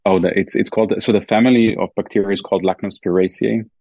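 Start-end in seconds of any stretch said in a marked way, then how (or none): 2.6-3.7 Lacnospiraceae spelled out slowly, syllable by syllable. Shown as a demonstration. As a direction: say Lacnospiraceae slowly and clearly for the listener.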